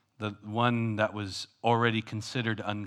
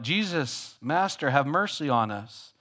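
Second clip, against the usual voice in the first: crying out; 4 semitones higher than usual. Retold or imitated. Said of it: "they're crying out".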